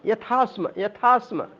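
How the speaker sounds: यथास्म with aspirated थ, joined; यथास्म carefully; pronunciation demo. Shown as a demonstration. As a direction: say यथास्म clearly in one go. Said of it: "पहली line में भी यथास्म".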